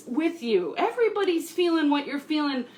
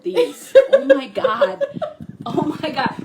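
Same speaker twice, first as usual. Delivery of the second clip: excited; 10 semitones higher, 7 dB louder than usual. Real, not acted. Excited over matching nails.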